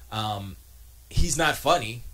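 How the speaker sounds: normal talking voice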